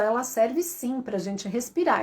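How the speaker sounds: normal talking voice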